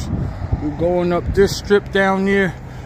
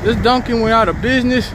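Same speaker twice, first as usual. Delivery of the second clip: surprised; 4 semitones higher than usual. Real, not acted. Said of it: "shocked at closed shop".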